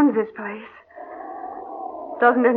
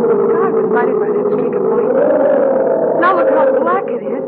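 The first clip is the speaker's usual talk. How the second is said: awed fright; 6 semitones higher, 5 dB louder than usual. Acted. Lightning streak in storm.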